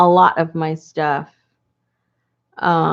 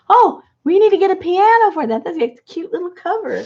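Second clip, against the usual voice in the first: mock husband voice; 11 semitones higher, 4 dB louder, faster than usual. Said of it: "my husband goes".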